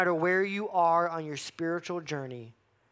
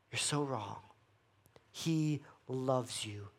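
softer, gentle assurance; reassuring; 2 semitones lower, 4 dB quieter than usual. Acted. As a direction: speak softly to someone who feels unwanted. Pastor reassures the lost son.

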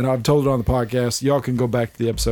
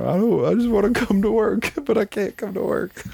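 retold crying; 9 semitones higher than usual.

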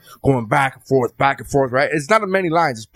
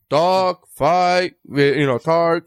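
mock Cuban accent, higher-pitched single words; thick Cuban accent; 3 semitones higher, much slower than usual. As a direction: overdo the Cuban accent on each word. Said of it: "the accent that Xander had drilled".

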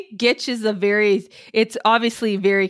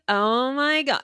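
put-on lightly done Valley Girl drawl; drawn-out Valley Girl; slower than usual. Shown as a demonstration. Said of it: "drawn out".

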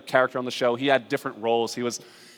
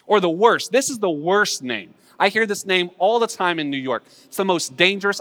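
raised, louder warning from the pulpit; urgent preaching; 5 semitones higher, 4 dB louder than usual. Real, not acted. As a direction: warn the congregation with force.

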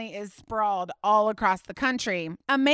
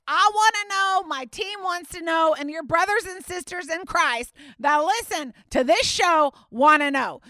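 higher, upbeat show announcement; promo read; 4 semitones higher than usual. Acted. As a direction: pitch it to listeners as a radio promo. Recorded promo inviting listener stories.

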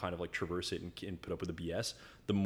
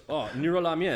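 higher, louder, naming the dish; noodle shop guy; 8 semitones higher, 9 dB louder than usual. Retold or imitated. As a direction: imitate a local telling a foreigner the dish's name. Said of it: "then the guy goes".

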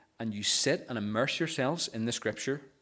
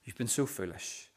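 gentle rebuke; 5 dB quieter than usual. Retold or imitated. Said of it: "that's how Jesus responds to us".

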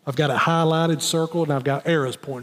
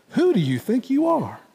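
Rob Co vernacular; 6 semitones higher than usual. Retold or imitated. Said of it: "Rob Co vernacular here".

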